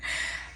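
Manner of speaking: short, soft giggle; real laugh. Real, not acted. Vlogger apologizing for being goofy, small real laugh. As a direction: let a small laugh slip out. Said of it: "I'm sorry I'm laughing".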